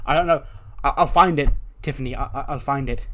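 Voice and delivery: mildly panicked, stammering promise; flustered. Retold or imitated. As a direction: stammer and scramble to placate. Flustered reply to angry demand.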